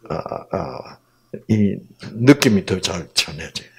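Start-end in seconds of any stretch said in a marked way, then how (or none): none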